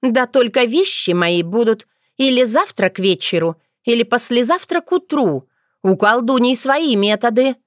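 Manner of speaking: put-on young witch fretting over books, lively; chattering young girl. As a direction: rattle on, excited about books. Otrada voiced higher.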